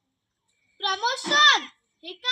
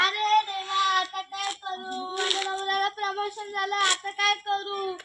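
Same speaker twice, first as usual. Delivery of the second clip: lament; 5 dB quieter than usual. Acted. Wife laments husband's "illness.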